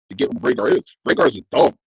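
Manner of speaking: usual speaking voice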